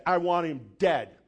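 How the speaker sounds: retold furious outburst at the thief; furious threats. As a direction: rage at the thief who robbed him. Retelling his rage at the thief.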